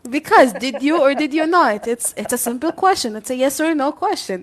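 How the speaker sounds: mock-stern auntie grilling; pushy auntie. Friend playing a nosy auntie demanding an answer. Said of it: "Why are you acting like my auntie?".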